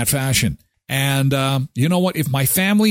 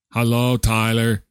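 group reply; 4 semitones lower than usual. Pretend. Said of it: "support group".

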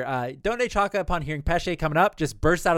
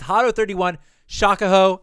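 spell called out; 3 semitones higher, 6 dB louder than usual. Retold or imitated. Retelling Renji's spell incantation.

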